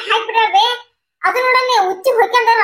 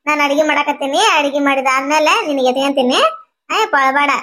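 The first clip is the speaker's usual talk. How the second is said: low, soothing mother's voice; calm coaxing, pitched low; 5 semitones lower than usual. Acted. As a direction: gently hush a fussy baby. Mother soothing her crying baby.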